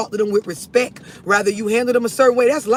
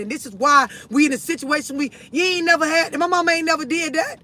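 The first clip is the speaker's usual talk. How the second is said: raised voice, a lightly acted confession; imagined mama apologizing; 3 semitones higher than usual.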